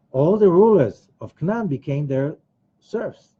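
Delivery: ordinary talk, nothing marked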